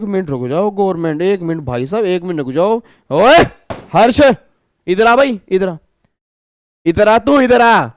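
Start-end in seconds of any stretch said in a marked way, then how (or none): 3.1-7.9 calling out. Retold or imitated. Calling customer over loudly.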